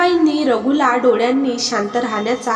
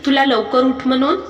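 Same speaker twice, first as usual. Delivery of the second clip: said loudly; 3 semitones higher than usual. Acted. Husband scolding wife over his mother, voice raised. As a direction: scold her, voice raised but not yelling. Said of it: "Raghu मोठ्याने म्हणाला".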